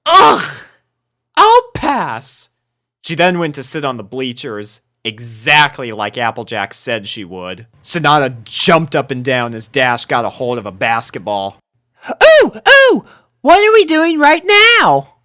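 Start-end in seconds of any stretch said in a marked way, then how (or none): 0.1-2.5 high, loud disgusted groan. A narrator's reading. Rarity refusing to sweat, high loud disgusted groan. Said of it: "Rarity made a disgusted sound". 12.1-15.2 very high, loud excited squeal; eager. A narrator's reading. Sonata jumping up and down, very high loud excited squeal.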